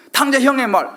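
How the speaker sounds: usual speaking voice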